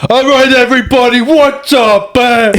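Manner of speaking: high, pumped-up New York gym instructor; New York coach. Pretend. Friend imitates New York Orange Theory coach, hyped. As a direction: hype the class like a Jersey trainer. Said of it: "if they have a fucking New York accent".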